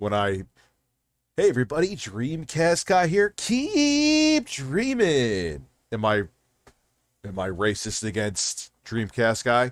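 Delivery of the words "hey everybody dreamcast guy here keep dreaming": high, swooping sing-song, "keep" drawn out. Showing whose voice gets imitated: Dreamcast guy impression. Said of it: "the sound of the person's voice that I am imitating".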